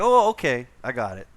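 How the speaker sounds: the vendor cheerfully agrees. Retold or imitated. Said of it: "And he's like".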